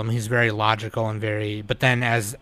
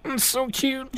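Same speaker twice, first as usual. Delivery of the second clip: much higher gushing squeal; 12 semitones higher, 4 dB quieter than usual. Real, not acted. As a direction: coo over something adorable. Gushing over a cute scene.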